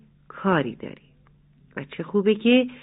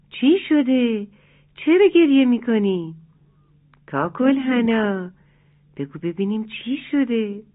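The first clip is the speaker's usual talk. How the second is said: worried parents; 4 semitones higher than usual. Acted. Worried parents ask crying chick.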